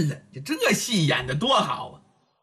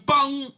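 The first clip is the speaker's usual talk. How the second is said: pounce sound; 7 semitones higher than usual. A narrator's reading. Storyteller's sound of her pounce.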